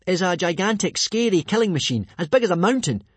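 high, loud, punched words; dramatic build-up. A narrator's reading. Hiccup awing the monster, high dramatic telling. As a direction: make the beast sound terrifying. Boy builds up rival dragon.

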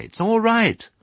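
high motherly soothing; reassuring mother. Acted. Mother dog soothing piglet after nightmare, reassuring. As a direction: comfort a frightened little one.

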